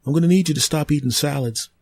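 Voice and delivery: a polite tree warning it may silence you; talking tree, menacing. Acted. Tree character demands.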